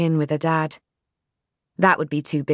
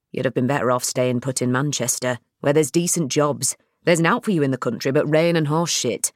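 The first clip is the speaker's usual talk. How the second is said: dad's voice. Acted.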